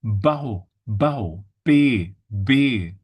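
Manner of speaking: "Bau" as BOW, then "B" as BAY; isolated B sound. Shown as a demonstration. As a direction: break out the B from "Bau" to a lone "B". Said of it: "So the sound".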